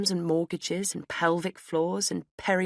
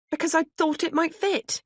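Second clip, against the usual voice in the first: higher, plaintive defence; defensive answer; 12 semitones higher than usual. A narrator's reading. Narrator defending herself to the shop assistant, higher and plaintive. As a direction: plead it, higher up.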